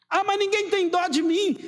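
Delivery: high-pitched mock complaint; mock self-pity. Churchgoer complaining nobody pities them, mock self-pitying. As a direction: protest like someone feeling sorry for themselves.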